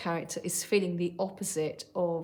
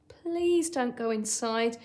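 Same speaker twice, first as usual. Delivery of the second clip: high, slow worried plea; pleading; 5 semitones higher, 3 dB louder, slower than usual. Shown as a demonstration. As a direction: beg him to stay out of the box. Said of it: "she isn't going to say it calmly".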